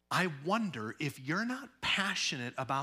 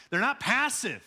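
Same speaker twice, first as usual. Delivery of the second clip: "not" stressed and raised; emphatic; 6 semitones higher, 4 dB louder than usual. Acted. Preacher telling the congregation plainly. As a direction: say "They're not passive" with force. First take.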